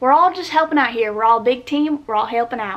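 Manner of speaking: loud, clumsy, bad put-on country accent. Asking viewers to comment on the book cover art, in a bad country accent. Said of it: "that was a really bad accent".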